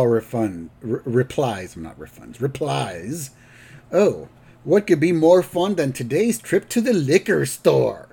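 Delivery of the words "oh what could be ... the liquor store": sarcastic grandpa retort, pitched up; mock enthusiasm, dripping with sarcasm. Grandpa replies to Homer about the trip, sarcastic. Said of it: "a lot of sarcasm in his voice".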